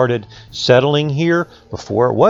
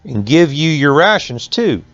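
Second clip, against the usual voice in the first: lightly voiced mill owner; 5 semitones higher than usual.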